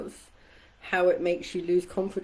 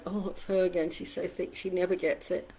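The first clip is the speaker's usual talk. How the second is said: mocking groan; 5 dB quieter than usual. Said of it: "auditorium groaning like".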